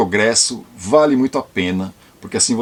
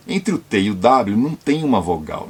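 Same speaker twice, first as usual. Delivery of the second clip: usual speaking voice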